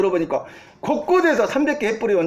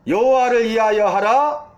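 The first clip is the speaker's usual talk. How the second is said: imitating a battle cry, only slightly raised; mild retold shout. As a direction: proclaim it like a restrained rallying cry. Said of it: "이렇게 외치라는 거예요". (살짝 힘주어 외치는 구호 흉내)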